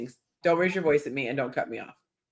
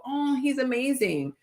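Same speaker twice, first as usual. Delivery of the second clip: higher, airy swoon; mock swooning woman; 7 semitones higher, 4 dB quieter than usual. Woman reacting to a sweet guy, mock swoon. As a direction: gush over him. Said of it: "have a guy do something sweet and go".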